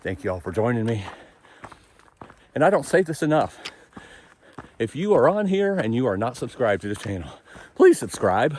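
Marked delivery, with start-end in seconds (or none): 7.7-8.6 raised, pushed-out voice that cracks. Asking viewers to subscribe to the channel, voice squeaking. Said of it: "my voice just squeaked".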